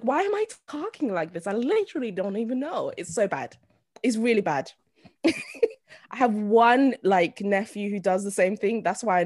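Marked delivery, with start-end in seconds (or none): 0.0-2.9 high-pitched put-on American accent. Shown as a demonstration. Showing friends how she turns American, American accent. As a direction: slide into a mock American voice. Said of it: "when I think about an American".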